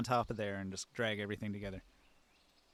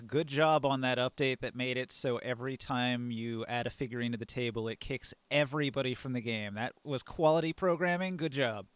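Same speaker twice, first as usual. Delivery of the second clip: sarcastic. Retold or imitated. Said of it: "to say very sarcastically".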